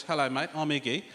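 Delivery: lightly mocked Australian accent; casual Aussie hello, imitated. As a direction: put on a broad-vowelled Australian accent. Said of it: "This is how a rapper talks".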